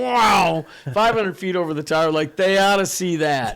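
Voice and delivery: playful retold amazement; amazed wow. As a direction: marvel at how high you are. Pilot amazed at tower.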